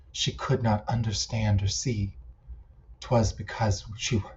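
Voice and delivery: measured recital with pauses between lines; poem reading. Acted. Poet reading poems written for an old friend, measured poem recital. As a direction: recite it line by line, unhurried. Reads own poems aloud.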